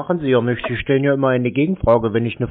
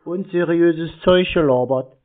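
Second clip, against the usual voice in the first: slowed, spelled-out repeat of the accusation; 3 semitones higher than usual. Real, not acted. Repeating for the caller who asked again, slowly and deliberately. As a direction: repeat it slowly so she can't miss it. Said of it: "Was habe ich?".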